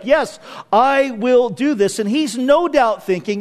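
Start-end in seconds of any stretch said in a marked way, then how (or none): 0.0-2.0 slow, deliberate firm yes; emphatic conviction. Retold or imitated. Preacher voices the kinsman's firm pledge, with conviction. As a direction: commit to it with conviction. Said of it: "with conviction that he's like".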